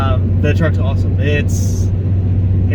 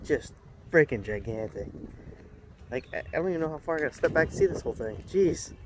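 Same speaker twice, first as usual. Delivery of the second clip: awed murmur; 13 dB quieter than usual. Real, not acted. Awed aside to himself.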